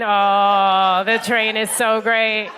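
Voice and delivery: drawn-out slow gush about the train; mock the bland train enthusiasm. Comic mocking locals' train praise, slow gush. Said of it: "every time".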